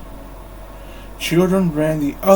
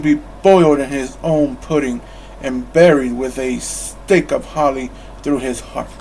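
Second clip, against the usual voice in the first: grumpy rant. Acted. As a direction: spit out the threat. Scrooge's furious rant.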